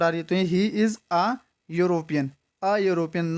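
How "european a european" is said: a European read very slowly, plain a before the yoo sound; slow model reading. Shown as a demonstration. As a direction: drawl out a European for the class. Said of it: "not an European".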